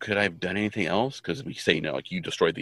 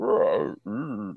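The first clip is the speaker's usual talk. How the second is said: put-on voice slowly fading away, mock dying; 2 semitones higher than usual. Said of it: "their voices slowly, like".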